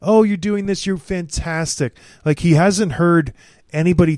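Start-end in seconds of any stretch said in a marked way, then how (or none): 0.0-2.0 gushing mock praise; hammed-up flattering fan; fawning flattery. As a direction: play the sycophant, all sugar. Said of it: "kissed his behind for, like".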